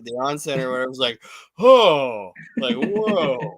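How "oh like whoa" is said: imitated crowd gasp. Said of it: "that entire Syracuse arena is like".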